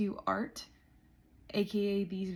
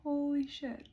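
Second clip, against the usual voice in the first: stunned, with "Holy" pitched high and falling; awed disbelief, louder; 6 semitones higher than usual. Real, not acted. Vlogger overwhelmed by her progress, exclaiming in awe. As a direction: awe breaking through, said out loud. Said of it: "the gravity of this is hitting me".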